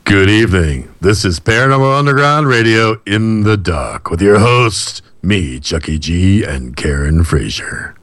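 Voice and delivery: slow, resonant radio host intro; resonant announcer voice. Acted. Host opens the radio show for listeners, resonant announcer voice. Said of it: "That was a really resonant voice".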